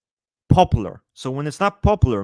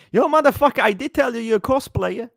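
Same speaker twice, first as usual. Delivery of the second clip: excited shout; 9 semitones higher, 5 dB louder than usual. Real, not acted. Laughing outburst at viewer.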